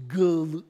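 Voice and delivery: first syllable Gal- said loud and stretched; three-syllable glory. Retold or imitated. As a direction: sound out Gal- as its own beat. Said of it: "is the first one".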